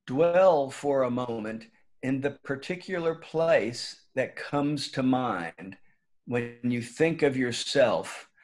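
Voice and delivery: calm, measured meditation leader with long pauses; guided meditation. Real, not acted. Former teacher inviting the school community to settle in, guided meditation. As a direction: gently guide listeners inward, leaving room between phrases.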